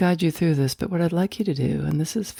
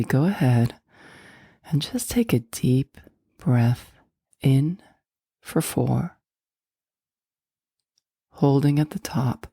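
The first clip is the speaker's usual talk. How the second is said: guided meditation; 2 semitones lower than usual. Acted. Host guiding listeners to let go of stress, guided meditation. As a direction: guide them gently inward, leaving space between phrases.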